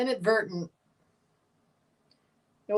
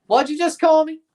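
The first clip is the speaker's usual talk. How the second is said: mock outrage; 8 semitones higher, 6 dB louder than usual. Second take, outraged.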